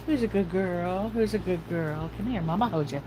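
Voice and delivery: cooing to dog. Real, not acted.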